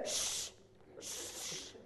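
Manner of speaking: unvoiced mock shush. Shown as a demonstration. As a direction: hush them like a disapproving usher. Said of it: "never hear anyone at a stadium say".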